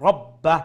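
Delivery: "রব্বা" with heavy rounded r and doubled b; loud, weighty "রব্বা", stopped at the end; full-mouthed ra. Shown as a demonstration. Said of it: "full mouth".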